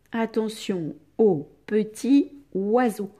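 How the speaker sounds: "Attention au petit oiseau" in separated chunks; word-by-word dictation. Shown as a demonstration. Teacher reading the corrected sentence to pupils, word by word.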